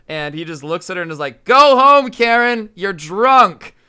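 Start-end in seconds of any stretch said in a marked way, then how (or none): 1.5-3.8 put-on big, high bellow at a drunk; imitated screaming. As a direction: yell it right in her face. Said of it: "screaming over and over again".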